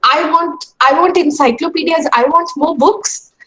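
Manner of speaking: child protesting, lightly acted; mock upset child. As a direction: act out a ten-year-old begging for books. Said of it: "she cried and she screamed and she said".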